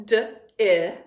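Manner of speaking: "D, I" as two short, separate phonics sounds; sounding out. Shown as a demonstration. Teacher giving the second syllable's sounds, sounding out. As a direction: sound out "D, I" firmly, one by one. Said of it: "Second syllable".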